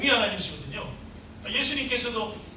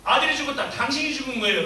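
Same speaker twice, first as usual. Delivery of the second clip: ordinary talk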